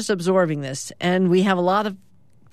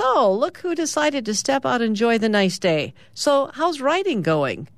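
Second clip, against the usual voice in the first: tag-less teasing greeting; 6 semitones higher than usual. Acted. Sally greets Ted on deck.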